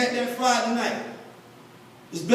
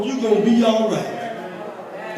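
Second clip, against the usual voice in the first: slow reassurance; much slower than usual. Acted. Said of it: "slow reassurance".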